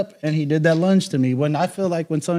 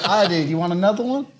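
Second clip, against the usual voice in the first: laughing taunt; 3 semitones higher than usual. Retold or imitated.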